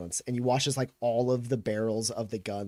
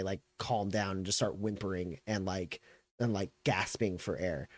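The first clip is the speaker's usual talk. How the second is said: usual speaking voice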